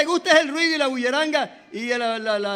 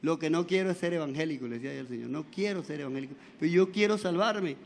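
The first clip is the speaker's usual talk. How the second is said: retold tearful prayer; 6 semitones lower, 8 dB quieter than usual.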